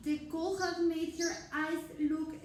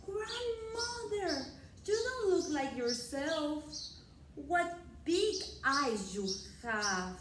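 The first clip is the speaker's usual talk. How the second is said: put-on higher, slow wondering girl; Little Red voice; 3 semitones higher than usual. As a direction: ask it slowly and wide-eyed. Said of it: "said in a loud voice".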